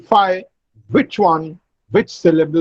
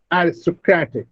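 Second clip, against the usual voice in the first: "Aristocratic" said a-ris-to-CRAT-ic; stress on CRAT. Shown as a demonstration. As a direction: main stress on CRAT in "Aristocratic", lighter on the first syllable. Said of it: "Kra receives the fourth".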